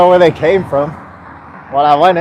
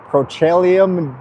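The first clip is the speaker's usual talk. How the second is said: slow, careful lisping word; 5 dB quieter, slower than usual. Real, not acted. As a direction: sore lips struggling with petroleum. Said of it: "I'm getting a lisp".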